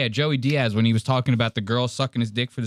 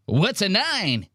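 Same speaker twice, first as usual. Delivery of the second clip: 1 slow high mock Mark; 7 semitones higher, slower than usual. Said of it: "He goes".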